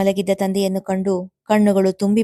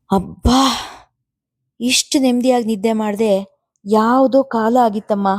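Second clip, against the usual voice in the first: lively; 3 semitones higher than usual. Acted. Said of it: "ಲವಲವಿಕೆಯಿಂದ ನುಡಿದಳು ಸಿಂಧು".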